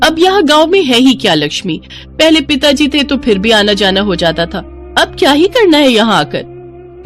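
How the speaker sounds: lightly scornful, pitch lifted at start and end; dismissive sister-in-law. Acted. Malti telling Lakshmi the village holds nothing, dismissive. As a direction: brush the whole idea aside, mildly impatient.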